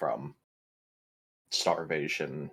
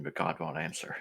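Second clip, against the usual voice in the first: whisper; 6 dB quieter than usual. Acted. Panic roll, character despairs.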